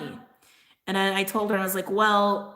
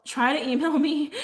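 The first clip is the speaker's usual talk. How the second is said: laughing; 7 semitones higher than usual. Real, not acted. Laughing while giving contact info.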